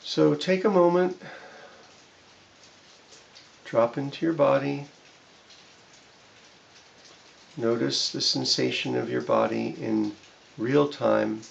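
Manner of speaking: unhurried guiding voice with long pauses; guided body scan. Shown as a demonstration. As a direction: ease the listener into the body, phrase by phrase.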